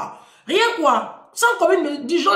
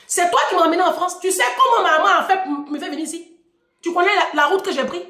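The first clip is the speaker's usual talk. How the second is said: quicker, firmer comeback with pointed questions; indignant challenge; 3 semitones higher than usual. Retold or imitated. Daughter challenging father about bringing her to France, indignant. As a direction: throw the claim back as a reproach.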